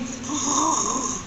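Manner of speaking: low, soft breathy roar; mock bear roar. Storyteller demonstrates Papa Bear, mild mock roar. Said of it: "He'll be like roaring".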